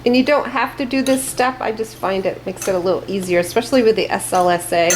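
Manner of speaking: talking through a face mask; muffled, mask over mouth. Real, not acted. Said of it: "if I sound a little muffled".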